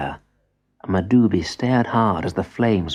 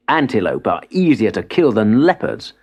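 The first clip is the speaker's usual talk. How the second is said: proudly. Acted. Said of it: "he said proudly".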